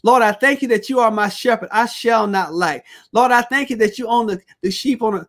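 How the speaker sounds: fervent praise prayer, demonstrated; preacher showing how to praise God in prayer; example prayer. Shown as a demonstration. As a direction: pray it aloud like you mean it. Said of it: "I'm giving you some examples".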